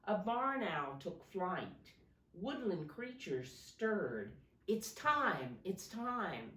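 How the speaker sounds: storybook read-aloud to a class; gentle classroom story reading; reading to children. Acted. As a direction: read it like a picture book for little kids.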